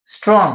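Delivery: "স্ট্রং" as one single syllable. Shown as a demonstration. Teacher showing a one-syllable word, "স্ট্রং" in one go. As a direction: say "স্ট্রং" in one unbroken beat. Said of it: "আমি একবারই বলতে পারছি স্ট্রং".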